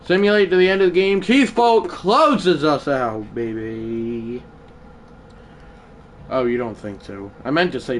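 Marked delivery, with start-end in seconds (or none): 1.2-4.4 emotional. Real, not acted. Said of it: "why do I sound emotional?".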